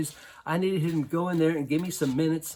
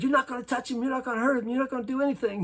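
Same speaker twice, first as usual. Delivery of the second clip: higher, firm insistent order; firm retold command; 9 semitones higher, faster than usual. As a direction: lay down the law to the angry kid. Coach restraining the player.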